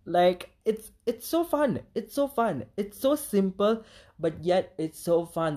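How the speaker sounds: high-pitched squeal of delight; giddy fan excitement; excited gushing. Real, not acted. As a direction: gush over it, voice way up. Gushing about the song.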